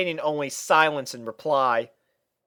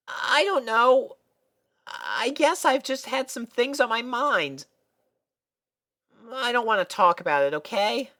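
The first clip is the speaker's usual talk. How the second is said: evasive Sweetie Belle; 11 semitones higher than usual. A narrator's reading. Sweetie Belle dodging her friends' questions, evasive. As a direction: dodge the question.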